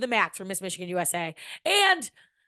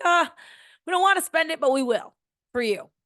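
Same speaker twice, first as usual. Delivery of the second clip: mocking parents; 9 semitones higher, 4 dB louder than usual. Parents voiced, high squeaky mock.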